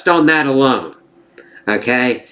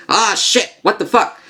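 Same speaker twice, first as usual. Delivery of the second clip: mock fan outburst; 8 semitones higher than usual. Imitating other fans reacting.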